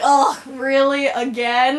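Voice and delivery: mock exasperation; exasperated groan. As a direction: imitate someone fed up, dragging it out. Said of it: "bangs his head on the table".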